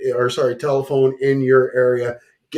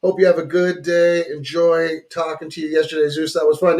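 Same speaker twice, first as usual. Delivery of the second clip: put-on higher-pitched, amateur Aussie accent; 4 semitones higher than usual. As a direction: read a listener's greeting in a rough Aussie accent. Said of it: "my Aussie accent".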